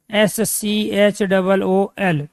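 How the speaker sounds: letters spelt out one by one, very slowly; slowly spelling out S C H O O L. Shown as a demonstration. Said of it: "spelling out letters".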